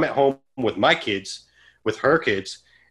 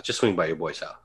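softer repeat of the gut voice; quiet inner voice; 5 semitones lower, 6 dB quieter than usual. Retold or imitated. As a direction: drop it down like a nagging thought.

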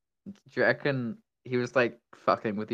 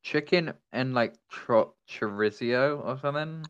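chewing while answering; mouth full. Real, not acted. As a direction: talk through a bite of pizza. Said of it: "munching right now".

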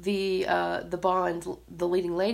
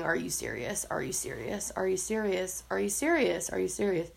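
muttered disbelief; 6 dB quieter than usual. Retold or imitated. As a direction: grumble it again and again, not believing it. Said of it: "I spent the entire time going".

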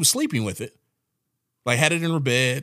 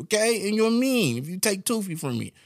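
put-on high, laughing kid voice; little kid voice; 9 semitones higher than usual. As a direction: pout like a small child. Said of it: "That little kid voice?".

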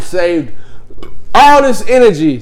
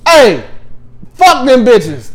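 dismissive sign-off; 5 semitones higher, slower than usual. Retold or imitated. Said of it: "I rolled up".

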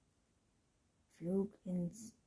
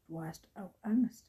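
louder, mildly surprised question; understated astonishment, voice raised; 10 dB louder than usual. A narrator's reading. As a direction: ask it with a touch of wonder. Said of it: "Antons verwundert".

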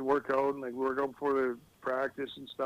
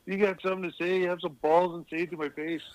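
tough guy challenge; 4 semitones higher than usual. Retold or imitated. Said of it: "And he's like".

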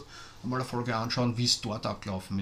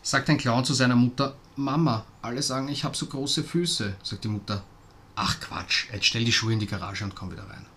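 joke telling; 4 dB louder than usual. Shown as a demonstration. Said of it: "Ich habe einen ganz depperten".

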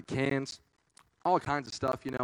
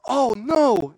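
loud worried gasp; 7 semitones higher, 12 dB louder than usual. Retold or imitated. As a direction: realize the trouble. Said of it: "I was like".

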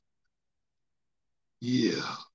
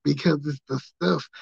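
Dusty Rhodes impression. Doing Dusty Rhodes for his British coworker, lightly lisped and drawled. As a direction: ham up the Dusty lisp and call everyone baby. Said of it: "doing the whole voice with the lisp".

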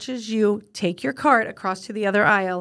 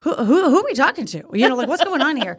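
confused; 5 semitones higher, 4 dB louder than usual. Retold or imitated. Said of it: "And I'm like".

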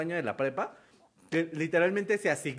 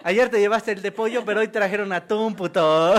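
loud mock taunt, slightly raised pitch; bullying taunt; 2 semitones higher, 5 dB louder than usual. Bully confronting Ramirito over his sandwich, loud playful taunt. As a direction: jeer at a kid over his lunch. Acts out lunch-box bullies.

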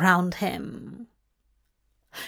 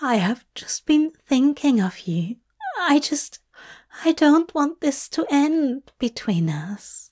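tearful, halting confession in a higher voice; understated tearful pleading; Aziraphale; 4 semitones higher than usual. Acted. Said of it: "Aziraphale sniffed".

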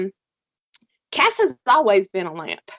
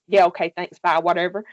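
faked casual brush-off; 4 semitones lower than usual. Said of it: "he fakes, says".

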